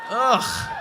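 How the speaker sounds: shrill high ugh, way up; piercing girl shriek. Retold or imitated. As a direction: squeal it like the heckler. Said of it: "the piercing white girl".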